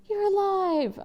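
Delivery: high, loud joyful shout. Acted. Boy shouting to his father in the car, loud relieved cry. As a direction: yell it out in relief. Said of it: "I shouted".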